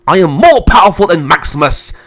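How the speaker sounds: loud, high boast in a rage; enraged. Acted. Emperor grabbing his sister, in a rage. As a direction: roar your superiority. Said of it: "went into a rage".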